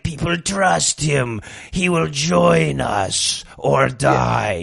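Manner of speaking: slow, low, menacing villain voice; Emperor Palpatine moment. Retold or imitated. Antichrist watching the news, slow menacing Palpatine voice. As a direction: drag it out like a sinister emperor. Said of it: "Emperor Palpatine moment where he's like".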